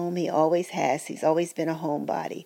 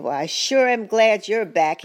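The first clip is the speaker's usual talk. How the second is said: imitating a relieved husband, louder and higher; lightly voiced husband, glad she's back; hint of the husband's relief; mock relieved husband; 4 semitones higher, 5 dB louder than usual. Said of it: "And he said".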